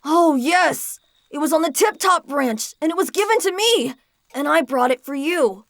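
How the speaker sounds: lightly voiced boy, excited then apologetic; a boy bringing a gift, sorry; eager boy. Visitor boy's dialogue.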